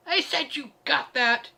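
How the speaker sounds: forceful repeat demanding obedience. A narrator's reading. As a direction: yell it over a mumbling crowd. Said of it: "so I hefted Heartrender and got louder".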